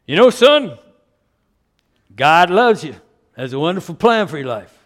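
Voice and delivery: loud Southern pastor impression; a Southern preacher's folksy pitch; strong Southern accent. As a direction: imitate a confident Southern evangelist. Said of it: "in his strong Southern accent".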